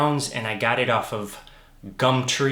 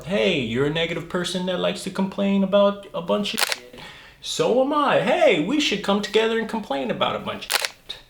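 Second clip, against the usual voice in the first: higher put-on whiny voice, faster at the end; griping complainer; 8 semitones higher than usual. Mocking two complainers teaming up, high whiny griping voice. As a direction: whine like a moaner looking for a buddy.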